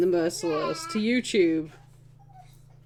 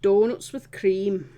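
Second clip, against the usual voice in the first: put-on slow, broad Yorkshire accent; 3 dB louder, slower than usual. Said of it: "I'll now go back to my Yorkshire accent".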